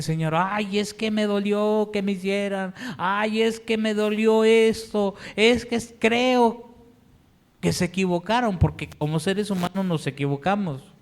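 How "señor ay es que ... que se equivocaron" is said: higher, aching, halting complaint; hurt lament. Retold or imitated. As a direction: pour out the hurt to God. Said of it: "empezamos a decirle". (lamento dolido y entrecortado, más agudo)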